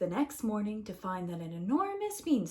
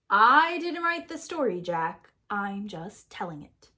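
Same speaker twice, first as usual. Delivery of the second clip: defensive narrator; 5 dB louder than usual. Acted. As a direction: push back at the character. Narrator answers Jack.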